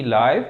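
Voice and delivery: लाइव with the long ai sound; लाइव said like the TV word; long i live. Shown as a demonstration. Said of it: "लेकिन उसका मतलब होता है बराह रास्त". (लाइव लंबी आइ के साथ)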